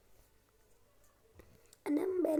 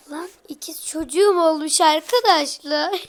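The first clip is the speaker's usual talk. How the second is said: excited shout; 9 dB louder than usual. Real, not acted. Twins born in game, exclaims.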